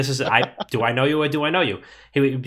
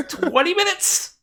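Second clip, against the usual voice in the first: much higher, slow, gleeful mock voice; eager reply; much slower than usual. Host telling Chris the Uber is close, gleeful high mock voice. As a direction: sell it like the party just started.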